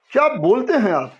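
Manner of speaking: demonstrated surprise, क्या and बोलते lifted; astonished. Shown as a demonstration. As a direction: react as if caught off guard by the words. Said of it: "उसको आश्चर्य लग रहा है". (आश्चर्य से, उठे हुए स्वर में)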